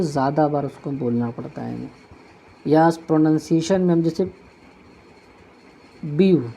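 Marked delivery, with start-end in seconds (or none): 6.1-6.5 ब्यूटीफुल broken into three separate beats, ब्यू, टी, फुल, with long pauses; syllable by syllable. Shown as a demonstration. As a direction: say ब्यूटीफुल one syllable at a time. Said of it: "एक बार, दो बार". (ब्यूटीफुल को तीन हिस्सों में रुक-रुक कर)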